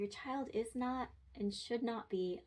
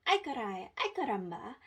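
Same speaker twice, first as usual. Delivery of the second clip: big Spanish exclamation; 2 semitones higher, 4 dB louder than usual. Shown as a demonstration. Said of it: "make really big exclamations".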